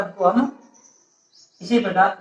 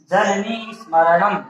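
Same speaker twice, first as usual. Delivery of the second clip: repeat-after-me recitation; slower than usual. Shown as a demonstration. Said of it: "इसका मैं तीन बार बोलता हूँ".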